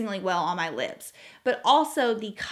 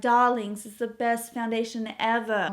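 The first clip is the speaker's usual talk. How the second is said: a lightly put-on, admittedly awful British accent; bad Charlotte Tilbury British accent. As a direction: toss off a posh British "Darlings" as a mock impression, barely shifted from the own voice. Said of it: "That was an awful British accent".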